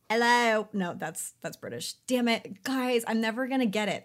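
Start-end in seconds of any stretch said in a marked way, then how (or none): 0.1-0.7 louder, botched Australian hello; failed Australian accent. Acted. Host greeting Australian listeners in a botched Australian accent. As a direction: attempt an Australian greeting that comes out British. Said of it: "For our Australian listeners".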